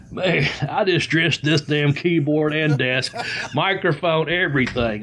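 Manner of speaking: laughing. Real, not acted. Laughing at spilled water.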